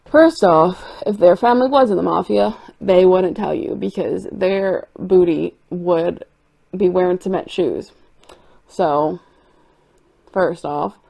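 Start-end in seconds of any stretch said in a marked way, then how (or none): 0.1-7.9 sassy comeback. Retold or imitated. Answering the red flag poster, a louder sassy clapback. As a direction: set her straight with attitude. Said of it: "And I'm like".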